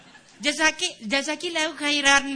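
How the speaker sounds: mock thanks. Student imitated answering in Arabic.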